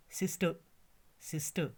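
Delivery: सिस्टर with silent r, ending 'tuh'; correct pronunciation. Shown as a demonstration. Teacher modelling the word for learners, correct pronunciation. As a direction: say सिस्टर as 'sis-tuh'. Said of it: "ये इसकी pronunciation है".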